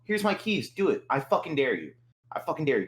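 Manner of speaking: high, taunting dare; a cocky taunt, pitched high; mock challenge. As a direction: dare him to try it. Daring a stranger.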